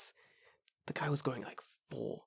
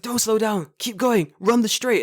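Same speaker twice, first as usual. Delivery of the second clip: higher, louder mock coaching yell; mock coach shout; 9 semitones higher, 4 dB louder than usual. Old man on bench coaches the runner, mock shout. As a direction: imitate an old man barking orders, higher. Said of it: "shouting at me".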